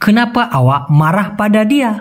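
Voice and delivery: very slow, each Malay word spaced out; slow clear Malay. Shown as a demonstration. Teacher to Bengali learners, very slow careful Malay. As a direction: spell the phrase out by ear for learners. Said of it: "ওই কথাটা এভাবেই বলতে হবে".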